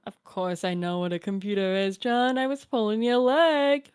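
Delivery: lightly voiced doting grandmother; a hint of a kindly old granny; old grandma voice. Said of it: "my Nana voice".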